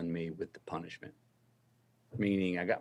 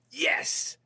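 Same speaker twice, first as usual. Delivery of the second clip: a whispered yes, much higher; proud whisper. Retold or imitated. Dad swelling with pride.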